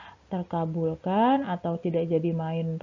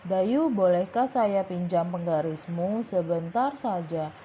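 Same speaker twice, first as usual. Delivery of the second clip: flat single-pitch reading, no rise and fall; monotone reading. Shown as a demonstration. Teacher demonstrating the wrong flat way to read dialogue. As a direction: read it like a bored list. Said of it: "jangan nadanya satu aja gitu".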